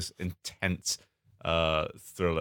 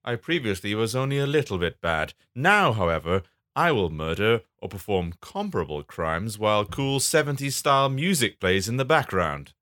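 scripted villain announcing a change of heart; lightly hammed-up baddie; comic bad character; 4 semitones higher than usual. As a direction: start high, then settle into deliberate menace.

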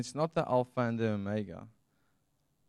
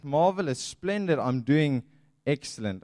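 fake cheerful reply; 2 semitones higher, 5 dB louder than usual. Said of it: "you're just like".

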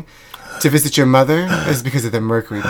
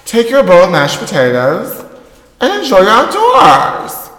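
spiteful grumbling alone at home; bitter muttering to herself. Acted. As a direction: seethe and plot under your breath. Secret tape sketch, S0 talking alone.

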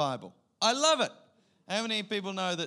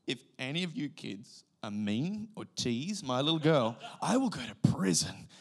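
menacing father; 2 semitones lower than usual. Acted. Dad warning kids off his little girl, mock menacing. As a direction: warn them off like a protective dad.

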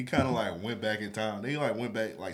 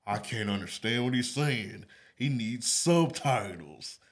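mocking corny critic; 3 semitones higher, 4 dB louder, slower than usual. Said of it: "some corny person talking some".

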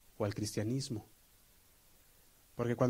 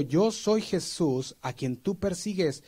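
voice of Jesus; 5 semitones higher, 4 dB louder than usual. Retold or imitated. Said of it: "Y le dijo".

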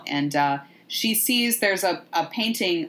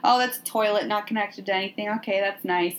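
higher-pitched, mildly sarcastic politeness; mock polite; 3 semitones higher than usual. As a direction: play at being politely impressed by a dump. Mock Helen politely remarking on squalor.

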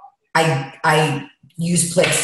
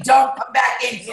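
high, animated exclamation; calling out; 6 semitones higher than usual. Real, not acted. To someone leaving the room, high animated call-out. Calls out as owner leaves.

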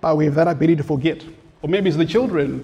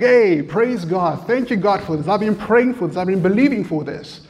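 excited praise; 4 semitones higher than usual. Retold or imitated. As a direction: thank God for the long-awaited answer. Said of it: "there was a day we were so excited".

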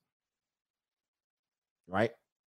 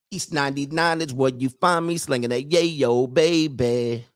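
mock gangster brag.

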